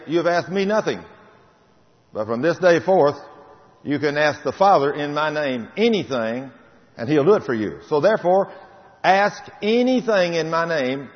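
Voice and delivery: preacher quoting Jesus with fire; fervent preaching. Acted. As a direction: preach it out, rising and ringing.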